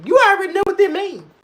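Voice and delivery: high, laughing delivery; high squeal of laughter. Real, not acted. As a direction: laugh it out knowingly. Laughing about mama's stare.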